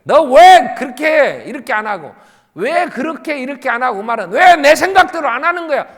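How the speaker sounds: loud, high-pitched mock scolding; acted anger. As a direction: snap as if demanding your own way. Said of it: "화를 내는 거 이런 거야". (화내는 흉내로 크게 다그치듯)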